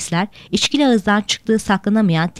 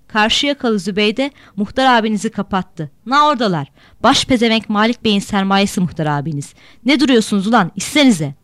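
put-on drunken taunting. Drunk Fatoş taunts the boat.

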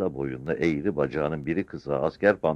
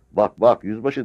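high, raised call for attention; old sergeant calling out to the captain; urgent shout; 7 semitones higher, 6 dB louder than usual. A narrator's reading. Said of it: "diye bağırdı Sarı Çavuş". (dikkat çekmek için bağırarak)

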